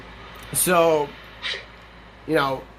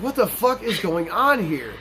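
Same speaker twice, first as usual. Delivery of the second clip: higher, drawn-out retold exasperation; exasperated; 4 semitones higher than usual. Manager retelling his reaction to chaotic texts, exasperated. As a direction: stretch the question out in disbelief.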